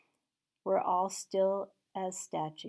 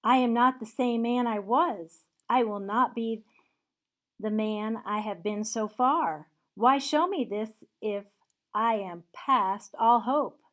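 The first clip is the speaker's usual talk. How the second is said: pleading in fear; 2 semitones higher, 7 dB louder than usual. Acted. Scrooge pleading with the spirit for his fate, loud and fearful. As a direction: beg for another chance, voice raised. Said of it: "Full of fear".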